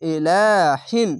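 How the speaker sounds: slow chanted ইলাহিন; Quran recitation. Shown as a demonstration. Teacher joins the spelled syllables, slow chant. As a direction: draw out ইলাহিন as in tilawat. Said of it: "হা দো জের হিন".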